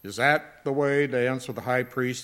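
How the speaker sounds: a touch of indignant demand; demanding guard. A narrator's reading. The temple guard demands an answer of Jesus, mildly indignant. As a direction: snap the question at him, mildly. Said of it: "he demanded".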